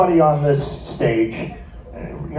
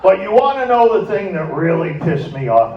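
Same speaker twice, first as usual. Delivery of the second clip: laughing while telling; slower than usual. Retold or imitated. The speaker recounts robbery, laughing.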